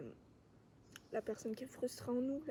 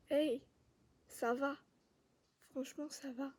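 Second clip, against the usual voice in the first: gentle reassurance. Acted. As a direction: soothe someone angry, with pauses. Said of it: "Il y a des parties douces".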